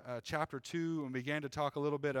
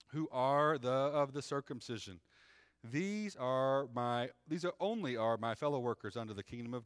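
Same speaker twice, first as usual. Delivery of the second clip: measured, raised reading voice; scripture reading. Acted. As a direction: read it like the pulpit Bible. Reads scripture aloud.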